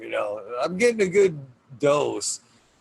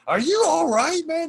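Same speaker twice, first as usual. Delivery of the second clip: much higher, louder concerned voice; concerned kids; 7 dB louder than usual. Retold or imitated. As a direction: imitate the worried kids asking. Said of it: "kids come upstairs and they're like".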